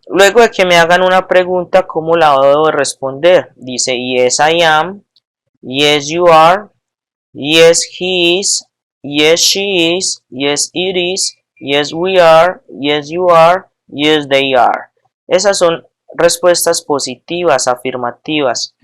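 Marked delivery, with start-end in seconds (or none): 4.0-14.9 slow, careful short answers; patient teacher modelling answers; slow classroom drill. Shown as a demonstration. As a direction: model each reply for the class.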